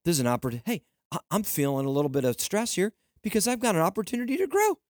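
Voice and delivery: cheerful reframing pep talk to yourself; upbeat self-encouragement. Shown as a demonstration. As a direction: talk yourself into seeing the opportunity. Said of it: "I want you to start saying".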